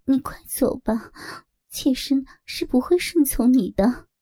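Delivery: coy, teasing little voice; coquettish. Acted. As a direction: flirt while pretending to refuse. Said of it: "嗲声道". (嗲声嗲气)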